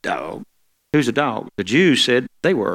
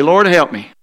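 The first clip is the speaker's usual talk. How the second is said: call for the congregation to repeat; 4 semitones higher, 5 dB louder, slower than usual. Shown as a demonstration. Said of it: "Somebody say".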